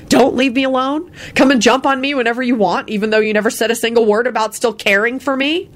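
high, indignant rant; hurt, exasperated inner outburst; angry thought. Acted. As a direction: build rising mocking questions. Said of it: "Elizabeth thought angrily".

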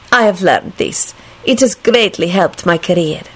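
put-on measured, foreign-accented assertion; decisive woman. A narrator's reading. Lady explains her career to her date, decisive. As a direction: state it decisively with careful diction. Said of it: "she finished decisively".

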